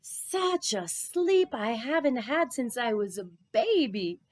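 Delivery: slow, satisfied, savouring it; contented musing. Acted. Rabbi waking rested, slow and contented. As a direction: stretch it out like a happy yawn. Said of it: "Rabbi Pinchas thought".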